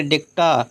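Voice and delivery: "डेक्टा" with a long final "taa"; long-voiced syllable. Shown as a demonstration. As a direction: hold the end of "डेक्टा" long. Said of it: "long voice में अगर बोलेंगे".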